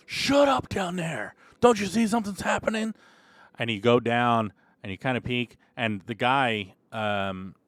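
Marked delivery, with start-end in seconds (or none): 0.1-2.9 high, loud barked order at the cells; barking guard. Acted. Guard yelling down at the prisoners, harsh raised bark. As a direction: snap at the noisy prisoners. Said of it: "And you hear the guards".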